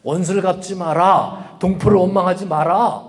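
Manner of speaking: firm, emphatic imperative; commanding delivery, each order driven home; divine command. Acted. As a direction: declare it as God's order. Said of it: "하나님의 명령입니다".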